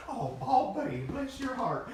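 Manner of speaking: mock sympathy. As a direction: coo it like a pitying southerner. Mock pitying southern quote.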